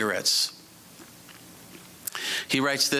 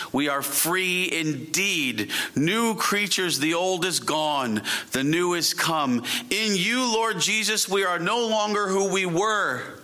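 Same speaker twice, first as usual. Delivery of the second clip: measured public prayer with drawn-out key words; fervent prayer; slower than usual. Real, not acted. Preacher prays to Lord Jesus for the congregation, fervently. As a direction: pray it out deliberately, building then settling.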